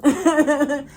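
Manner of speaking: a short high giggle. Real, not acted. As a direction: laugh it off, high and loud. Laughs remembering him.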